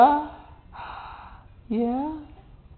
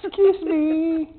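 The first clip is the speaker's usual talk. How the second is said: slowly spelled out: "Excuse me"; slow coaching demo; 7 semitones higher, much slower than usual. Shown as a demonstration. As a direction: draw out "Excuse me" for the baby to copy. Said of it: "I say".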